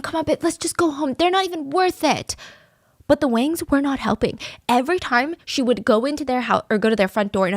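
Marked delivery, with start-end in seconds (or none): 0.0-2.4 higher-pitched pleading to placate; acted soothing husband voice; calming her down. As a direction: gently coax an angry partner. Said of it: "try to calm his wife down".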